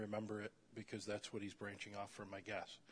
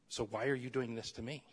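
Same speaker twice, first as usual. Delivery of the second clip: snotty attitude; 3 dB louder than usual. Acted. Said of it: "It's a snotty attitude".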